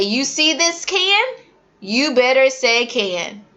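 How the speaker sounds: stressing can for the class; teacher prompt. Shown as a demonstration. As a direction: prompt the kids to repeat can. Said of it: "I say".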